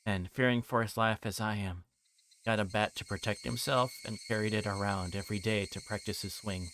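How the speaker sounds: low, even narrator voice for the novel; story narration. A narrator's reading. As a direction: read it out like the book's narrator. Reads visual novel narration.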